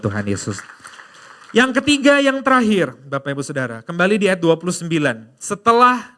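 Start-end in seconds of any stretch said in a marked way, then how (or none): 1.5-4.7 loud, high announcement of the last point; preaching at full force. Acted. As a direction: proclaim it to the whole hall. (seruan khotbah yang lantang)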